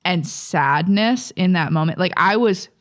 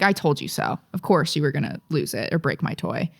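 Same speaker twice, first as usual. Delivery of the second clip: smug; 3 semitones lower, 4 dB quieter than usual. Retold or imitated. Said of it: "Being a smug little asshole".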